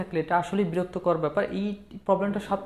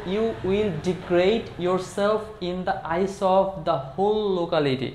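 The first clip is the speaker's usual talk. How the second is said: slow model phrase; much slower than usual. Shown as a demonstration. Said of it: "এই কথাটা যদি আমরা ইংলিশে বলতে চাই".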